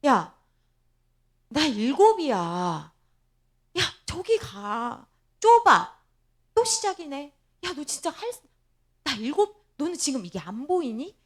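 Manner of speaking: acted exasperation with loud bursts; annoyed. Hannah brushing off her boasting rival, mock annoyance. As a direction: imitate being fed up and bothered. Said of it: "한나는 귀찮을 거예요".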